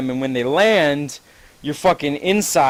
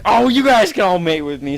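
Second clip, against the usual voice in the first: gushing delight; 5 semitones higher, 5 dB louder than usual. Retold or imitated. Happy Seagull welcomes the ants.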